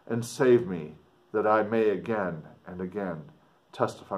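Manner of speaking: put-on measured read-aloud of an old letter. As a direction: read it like the writer speaking to his sister. Teacher reads Walton's letter aloud.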